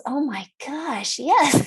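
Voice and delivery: slow, emphatic retold agreement; mock exasperation. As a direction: imitate a patient stating the obvious. Patient's exasperated confirmation, acted.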